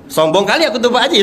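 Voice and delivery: high voice breaking into laughter; laughing self-mockery. Real, not acted. Guest confessing past pride to Pak Haji, laughing. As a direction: laugh at your own boast.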